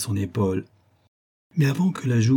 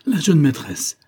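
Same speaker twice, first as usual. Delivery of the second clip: high, louder cry of acclaim; exclamation; 7 semitones higher, 5 dB louder than usual. A narrator's reading. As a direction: cry out from the boat. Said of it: "s'écria Yorsko". (exclamation vive et haute)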